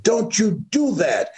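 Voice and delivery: high-pitched imitated scolding; sharp reprimand acted as the mother. Mother grabbing her disobedient son, imitated high scolding.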